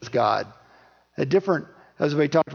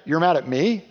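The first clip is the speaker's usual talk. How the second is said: laughing, much higher incredulous God; a light laugh, then a high teasing challenge; amused God voice; 6 semitones higher than usual. Retold or imitated. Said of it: "God's like".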